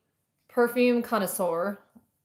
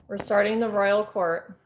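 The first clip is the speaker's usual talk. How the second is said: trying not to smile. Real, not acted. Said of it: "I can't even keep a straight face".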